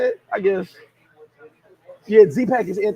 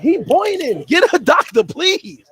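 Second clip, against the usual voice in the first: mock panic; 9 semitones higher, 7 dB louder, slower than usual. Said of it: "I'm like".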